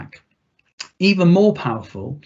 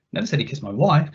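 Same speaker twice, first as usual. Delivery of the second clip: wife stressed at the end, rising; faster than usual. Shown as a demonstration. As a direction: land the weight on wife. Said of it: "see how the meaning shifts with a different emphasis".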